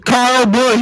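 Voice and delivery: loud, high yell from the clip; imitated kid's scream. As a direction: yell it as the punchline. Answers himself with the clip's scream.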